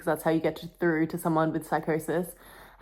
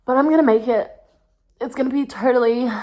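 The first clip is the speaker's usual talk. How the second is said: forced cheer; 6 semitones higher, 6 dB louder than usual. Real, not acted. Forced upbeat self-reassurance.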